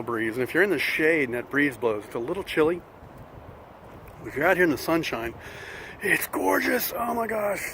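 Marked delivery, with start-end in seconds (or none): 6.0-7.7 much higher, delighted gush. Real, not acted. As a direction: gush about the sunshine. Delight at sunny weather.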